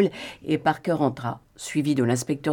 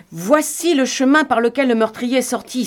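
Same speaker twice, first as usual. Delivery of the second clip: higher, louder eager exclamation; exclaiming; 8 semitones higher, 4 dB louder than usual. A narrator's reading. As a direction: cry it out as if you've found the clue. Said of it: "s'écria-t-il".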